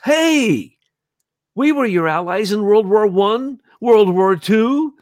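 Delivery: high, put-on Russian-tinged voice; playing Putin pleading as an old ally; imitating Putin. Imitating Putin's complaint to America in a high mock Russian voice. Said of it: "he always says it to us".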